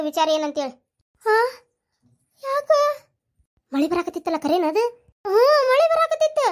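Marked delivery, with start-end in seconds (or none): 5.2-6.5 laughing. Real, not acted. Laughing while telling rain story.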